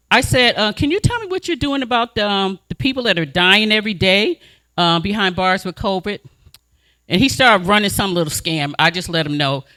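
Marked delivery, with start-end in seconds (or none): 0.7-6.2 polite question. Retold or imitated. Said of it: "I spoke just like this".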